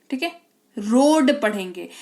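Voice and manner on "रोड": रोड slowly with a long o and a silent a; long o vowel. Shown as a demonstration. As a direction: hold the o in रोड. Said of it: "ए जो है आपको सुनाई ही नहीं देगा". (रोड में लंबा ओ)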